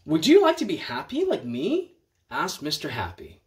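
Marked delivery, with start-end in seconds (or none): 0.0-2.0 higher, bright inviting voice; cheery offer. Acted. Mister Happy invites Mister Miserable, higher and cheerful. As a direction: offer it eagerly.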